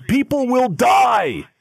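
high, slow hammed-up shriek of panic; mock scream. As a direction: wail it like a melodramatic protester. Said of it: "somebody screams".

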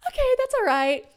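very high forced cheer; forcing a bright okay; forced cheerful. Retold or imitated. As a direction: chirp it with fake calm.

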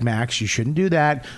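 calm, lightly acted parent. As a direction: correct the child without yelling. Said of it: "There's none of that".

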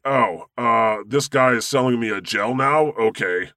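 lightly voiced ignorant Southern drawl; a hint of a dim homophobe drawling along; mock Southern drawl. Mocking a homophobe buying a cure gel, light Southern drawl. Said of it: "I like impersonating homophobes".

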